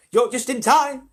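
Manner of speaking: put-on high, loud old man's shout. Grandpa Joe telling the family, high excited shout. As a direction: call it out with glee. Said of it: "shouted Grandpa Joe".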